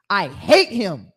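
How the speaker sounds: slow, hammed-up hateful growl; Haman's wrath. Acting out Haman's hate for Mordecai, slow and mock-angry. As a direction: drag out each word in mock hatred. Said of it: "he was full of wrath".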